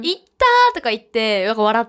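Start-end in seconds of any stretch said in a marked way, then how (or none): 0.0-0.7 high, louder playful "いったー"; light mock pain cry after slipping on ice; laughing ouch. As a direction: shrug the fall off with a cheery "いったー". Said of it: "冬は転んで当たり前だと思ってるから".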